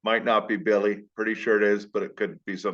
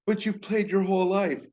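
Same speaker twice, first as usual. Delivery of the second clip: high-pitched protesting parent voice; high, incredulous parental protest; pleading parent; 10 semitones higher than usual. Acted. Imagined parent pleading with kid.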